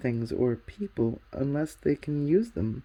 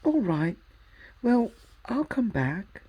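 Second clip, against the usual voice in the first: slower, gentler giving in; softened voice; 8 semitones higher, 4 dB louder, slower than usual. A narrator's reading. Polly relenting to Diggory, slower softened voice. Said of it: "in a rather different voice".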